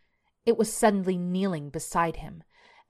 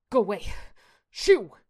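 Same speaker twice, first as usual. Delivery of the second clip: yelling; 4 semitones higher, 5 dB louder than usual. A narrator's reading. Shane shoos the cats off his chest, yelling. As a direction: yell building to a high, loud shoo. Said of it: "Shane yelled".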